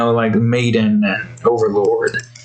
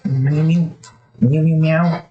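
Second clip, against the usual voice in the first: meow voice; 4 semitones higher, slower than usual. Pretend. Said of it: "the meow voice".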